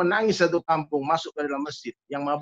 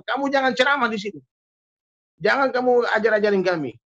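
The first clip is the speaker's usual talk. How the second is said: higher-pitched retold warning; mock stern warning; 4 semitones higher than usual. Village head forbids the visiting sheikh to preach, mock stern. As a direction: lightly act out a village head's ban.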